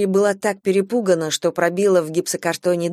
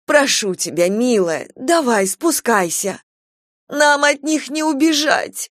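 desperate pleading; 6 semitones higher, slower than usual. A narrator's reading. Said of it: "В них слышалось отчаяние".

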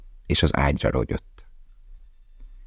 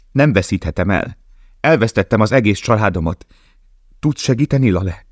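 pleading; 5 semitones higher than usual. Acted. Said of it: "könyörgött Dana".

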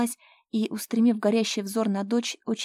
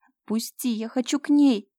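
rising, louder hysterical plea; hysterical cry; 4 semitones higher, 6 dB louder than usual. Acted. Slava cries hysterically to go to her mother. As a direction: break down, crying out. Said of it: "кричала в истерике".

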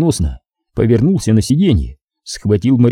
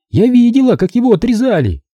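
higher, taunting woman's voice full of contempt; gloating female captor; 12 semitones higher than usual. A narrator's reading. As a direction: sneer it at the rich man, pitched up. (злорадная похитительница, высоким голосом)

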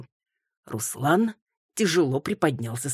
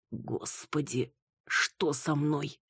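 faint, slow hungover murmur; barely voiced, head pounding; soft slow dazed whisper of a question; weak groan; 7 dB quieter, slower than usual. Waking hungover, confused.

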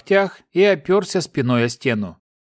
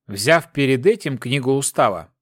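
ordinary delivery, nothing marked

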